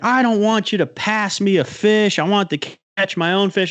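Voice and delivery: high, hammed-up retort; mock yelling back. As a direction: yell back half in jest. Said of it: "He starts yelling back at me".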